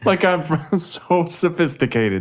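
high, laughing mock-posh boast; mock sophistication. Answering co-host's teasing, mock-sophisticated boast. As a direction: boast it high, sending yourself up. Mocking over-careful pronunciation.

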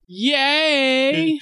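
high excited party yelp; a rapper. Retold or imitated. Host redoing the black accent bit, high hype-man yelp. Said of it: "That was, that was a rapper".

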